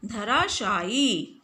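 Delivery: धराशायी drawn out, the final ई held long; slow spelled-out word. Shown as a demonstration. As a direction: say धराशायी slowly, holding the long ई. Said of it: "लगाया है ना". (धराशायी धीरे, आख़िरी ई लंबी खींचकर)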